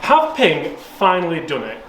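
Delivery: slow, announcing the title; title read. Shown as a demonstration. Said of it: "I've titled this video".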